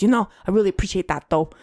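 lightly imitated Boston bartender, fast; quick, mild Boston impression; retold Boston accent. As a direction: toss off a hint of a Boston accent. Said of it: "And then in his boss's accent".

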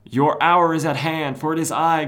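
high, loud, pompous declaration; hammed-up villain announcing himself; villain's proclamation. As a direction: declaim it grandly, slowing down. Villain's grand entrance speech, acted out.

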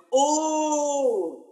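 high, loud startled "Oh!"; shocked exclamation. Retold or imitated. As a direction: blurt it out, caught completely off guard. Teacher shocked by gay club remark.

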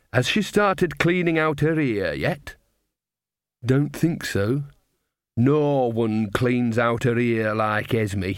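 put-on cosy old witch gossiping, slow in places; a knowing old granny sharing gossip; Nanny Ogg. Nanny to Magrat, gossiping about Esme, old woman voice.

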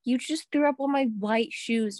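a dismayed cry at the ruined shoes; retold outrage. Telling her friend she threw up on the shoes, dismayed. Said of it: "And I was like".

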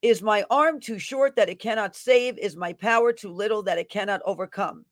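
fervent prophetic declaration; prophetic proclamation. Acted. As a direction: proclaim it like a prophet over the crowd. Reads a prophetic word.

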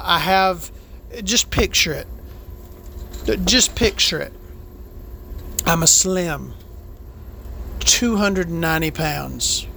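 a lightly played, self-adoring trucker diva; Victoria Vandenberg. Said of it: "So this is Biscuits Buttered with Victoria Vandenberg".

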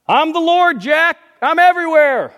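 lightly voiced God answering Jack; calm divine voice. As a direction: announce yourself simply.

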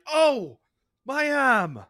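put-on Australian accent, high and loud, faking an injured arm; mock Australian whine. Podcast host mocks a player faking injury, put-on Australian accent. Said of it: "Is that your Australian accent".

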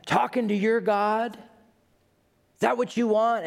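high, slow Southern hellfire preacher. Retold or imitated. Preacher in the crowd catches the scientist's eye, slow high Southern accent. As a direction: drag it out like a Southern preacher calling her out. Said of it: "he's got a Southern accent".

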